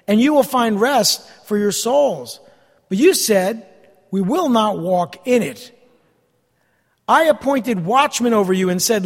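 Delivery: slow, measured Bible reading; scripture reading. Real, not acted. Preacher reading the people's refusal to the congregation, measured and emphatic. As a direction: read the verse out in deliberate phrases.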